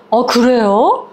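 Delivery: mild acted surprise; a touch of startled questioning; taken aback. Woman learns from the grandmother the mother is missing, mildly startled. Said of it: "너무 놀래가지고".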